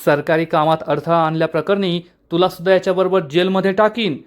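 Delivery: understated angry warning; lightly voiced annoyed inspector; mildly irritated threat. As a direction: warn him off with a touch of temper. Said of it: "inspector चिडून म्हणतो".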